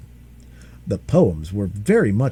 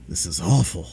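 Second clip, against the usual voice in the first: weary dragon; 7 semitones lower than usual. Acted. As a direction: drag it out, fed up. Dragon distressed.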